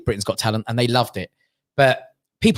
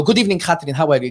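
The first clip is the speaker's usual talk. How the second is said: put-on Armenian-accented greeting; faster than usual. Armenian act greets singer on special, Armenian accent. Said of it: "Live from Armenia".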